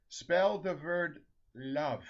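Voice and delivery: put-on slow, spaced-out Norwegian-accented request; Saint Peter, Norwegian accent. Saint Peter tests Lena at the gates, Norwegian accent. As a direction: pose it slowly in a Norwegian accent. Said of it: "the Saint Peter has a Norwegian accent".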